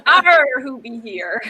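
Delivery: half-hearted pirate growl on "Arr"; pirate talk. Pretend. Checking who has joined the stream, mock pirate voice. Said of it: "we're not talking like pirate".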